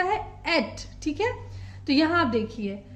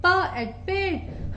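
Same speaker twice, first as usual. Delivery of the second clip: प, एग, पेग sounded out slowly; slow teacher blending; 3 semitones higher, much slower than usual. Shown as a demonstration. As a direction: build पेग piece by piece. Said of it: "phonic sound की help से पढ़ना सिखाएं".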